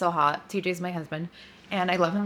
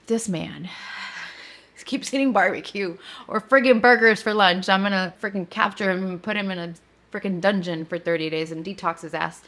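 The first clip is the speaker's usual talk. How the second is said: mock rant with a louder burst midway; retold fuming; 3 dB louder than usual. Wife venting alone about husband's eating, mock mad. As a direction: imitate muttered-to-self exasperation, punching the complaint. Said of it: "I was still really mad".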